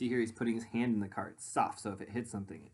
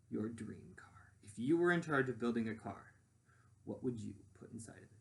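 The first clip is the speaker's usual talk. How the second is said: whisper. Acted. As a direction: hush it like sharing a secret. Teacher inviting kids to imagine.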